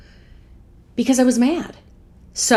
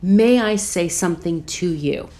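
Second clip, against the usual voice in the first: measured, deliberate polite request; asking permission. Shown as a demonstration. Asking the pharmacist's permission to speak, deliberate. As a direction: spell out the request word by word. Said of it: "I asked permission".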